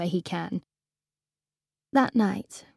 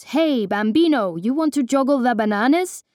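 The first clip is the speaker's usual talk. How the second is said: fake Peruvian accent; 4 semitones higher, 4 dB louder than usual. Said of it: "talk in ... Peruvian accent".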